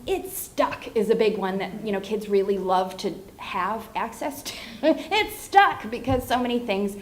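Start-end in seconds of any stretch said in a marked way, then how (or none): 0.1-1.0 put-on modeling for a child. Shown as a demonstration. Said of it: "starting to model those things".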